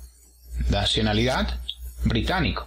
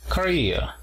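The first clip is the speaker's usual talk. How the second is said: "Korea" as ko-REE-a, middle syllable higher; stress on second syllable; 5 semitones higher than usual. Shown as a demonstration. Teacher models "Korea" after showing the apostrophe, stress on second syllable. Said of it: "apóstrofo en la segunda sílaba".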